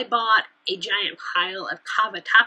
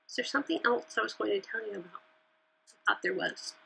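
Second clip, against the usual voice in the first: talking through hiccups; 7 dB quieter, faster than usual. Real, not acted. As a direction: speak while fighting the hiccups. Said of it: "I'm hiccuping now".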